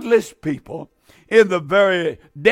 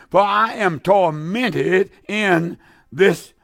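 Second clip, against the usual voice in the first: anguished plea; much slower than usual. Acted. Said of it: "he cried, saying".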